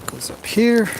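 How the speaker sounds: high, lilting voice for the horse; high sing-song. Real, not acted. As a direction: lift it up high and coaxing. Talking to horse, high pitch.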